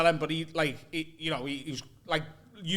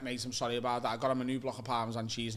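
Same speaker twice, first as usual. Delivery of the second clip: low, soft, sheepish peace offering; apologetic; 8 semitones lower, 8 dB quieter than usual. Retold or imitated. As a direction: apologise quietly, much lower. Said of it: "So I, I apologise".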